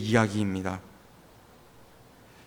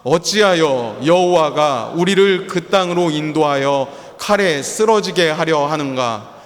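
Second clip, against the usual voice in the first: scripture reading; slower than usual. Real, not acted. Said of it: "삼 절의 말씀을 함께 읽겠습니다".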